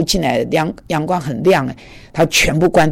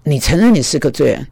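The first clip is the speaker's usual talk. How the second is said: 认 in 承认 stressed with a falling, disbelieving tone; surprised echo. Retold or imitated. Startled preacher repeats the patient's answer, surprised. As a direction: repeat it back as if you can't believe it. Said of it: "我，我吓一跳".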